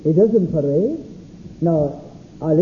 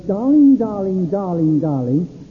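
mocking repetition; slower than usual. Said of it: "come to blows".

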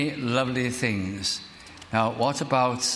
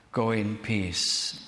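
slow tender blessing; 3 semitones lower, much slower than usual. Acted. Preacher repeats Jesus's words.

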